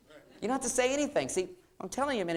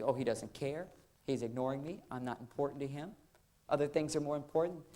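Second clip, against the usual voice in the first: hurt wife; 2 semitones lower, 6 dB quieter than usual. Acted. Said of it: "She starts getting really angry inside".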